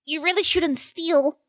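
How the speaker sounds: small high conscience voice; a tiny voice of conscience; twinkling breathy fairy whisper. Acted. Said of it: "You hear a little voice".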